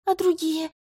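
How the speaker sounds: high, frightened cry; panicked question. A narrator's reading. Healer asks the commander about the others, high and panicked. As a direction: ask in panic. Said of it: "запаниковала я".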